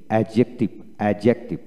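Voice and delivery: অ্যাডজেক্টিভ with the d left silent. Shown as a demonstration. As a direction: say অ্যাডজেক্টিভ as "a-jek-tiv", no d. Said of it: "ডিজে বা ডিজি পাশাপাশি থাকলে ডির উচ্চারণ হয় না". (ডি উচ্চারণ ছাড়া অ্যাডজেক্টিভ)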